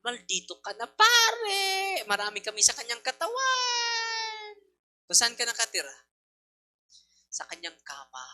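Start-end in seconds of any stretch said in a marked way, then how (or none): 0.0-4.6 high, loud crying demon shriek; screaming demon. Retold or imitated. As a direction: wail it like a possessed woman's demons. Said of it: "sumisigaw siya".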